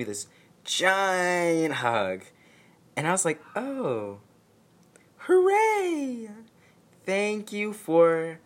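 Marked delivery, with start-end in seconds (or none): 3.5-8.4 squeaky, falsely delighted hooray; mock gratitude pitched way up, dripping sarcasm; hammed-up fake joy at an ambush hug; sarcastic fake cheer. Sarcastic thanks for unwanted hug.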